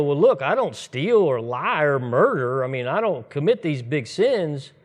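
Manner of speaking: lightly acted protest with swooping pitch; mock self-justifying. Churchgoer excusing himself before God, mock self-righteous.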